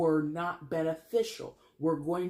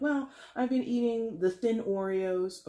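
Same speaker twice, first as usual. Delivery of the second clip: sheepish patient; 5 semitones higher than usual. Retold or imitated. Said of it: "And you're like".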